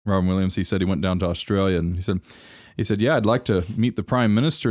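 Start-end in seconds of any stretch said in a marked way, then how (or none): 3.0-4.7 put-on Australian accent. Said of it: "I can't do an Australian accent".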